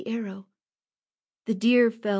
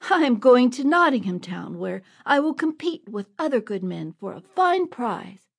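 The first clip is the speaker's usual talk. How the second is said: proud, indignant and louder; defiant boy, much louder; angry retort; 4 semitones higher, 5 dB louder than usual. Acted. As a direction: stand up to the bullies, raising your voice. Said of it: "That made Robin angry".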